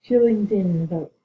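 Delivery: a slow, mournful call for a teammate. Real, not acted. Calling teammate's name.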